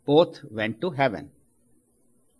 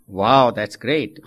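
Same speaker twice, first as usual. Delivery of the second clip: amazed wow; 3 semitones lower, 7 dB louder, slower than usual. Acted. Delighted old man in heaven.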